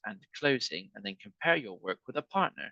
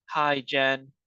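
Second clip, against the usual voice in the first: louder, brighter hi; excited hi to a friend; excited greeting; 3 semitones higher, 6 dB louder than usual. Shown as a demonstration. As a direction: greet her like you're thrilled. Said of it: "They're excited".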